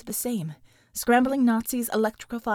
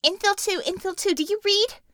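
higher voice calling over comm; radio call; 10 semitones higher, 4 dB louder than usual. Acted. Bella calling the team over the comm. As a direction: call sign like a radio operator.

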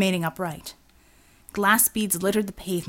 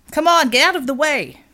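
shouting at traffic; 7 semitones higher, 8 dB louder than usual. Acted. Devil yells at pedestrians from the speeding van, loud. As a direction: bark the crowd out of the way.

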